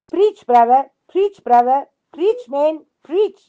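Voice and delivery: imitated deacons' cheer, climbing in pitch; retold yell. Deacons egging on a preacher mid-sermon, retold yelling. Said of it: "the deacons yell out".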